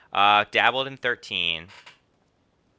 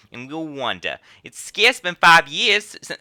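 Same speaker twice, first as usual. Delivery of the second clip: slow Western drawl, rising higher and louder; a little Western accent; 6 semitones higher, 8 dB louder than usual. Acted. Innkeeper recalls the calamity, slow Western accent. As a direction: slip into an exaggerated Western drawl. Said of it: "that was a little Western".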